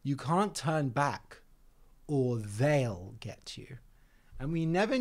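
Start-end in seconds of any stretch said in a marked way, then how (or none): 0.0-3.8 slow, slowing into a spooky whisper; spooky warning. Retold or imitated. Aunt warns the children on the walk, slow spooky whisper. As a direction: hush the kids with a mock threat. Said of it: "she would always say".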